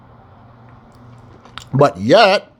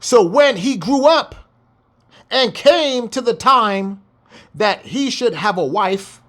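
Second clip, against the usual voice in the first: scripture reading; 3 semitones higher than usual. Acted. Reads scripture aloud.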